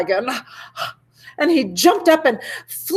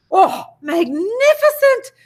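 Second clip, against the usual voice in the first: much higher, slow, drawn-out cry of delight; gushing praise; 10 semitones higher, slower than usual. Acted. Princess cheering the dragon on, much higher and drawn out. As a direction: gush over it, stretch it out.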